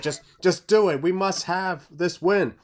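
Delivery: insistent plea, slowing on the last phrase; desperate demand. Acted. Fan begging for the win by any means, mildly acted desperation. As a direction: plead for it at any cost, a touch desperate. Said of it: "you desperately want it. You're like".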